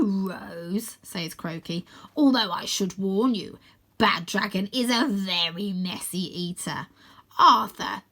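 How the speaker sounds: slow showman villain, dropping to whispers; enjoy the show he stages; lightly voiced smug villain; mocking villain host. Croaky mocks.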